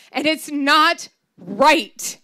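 hurt granddaughter wailing and it's not right. Retold or imitated. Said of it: "I wailed".

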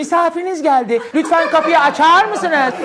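high, slow robotic doorbell announcement; slow recorded doorbell voice announcing a guest; talking doorbell voice. Retold or imitated. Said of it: "şey diye bir zil vardı".

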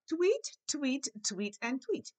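playful tweeting, first one very high; bird tweets. Pretend. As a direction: chirp out each tweet like a little bird. Teacher imitates four birds.

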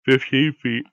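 said mid-yawn; yawning through the words. Real, not acted. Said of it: "Sorry, I was yawning".

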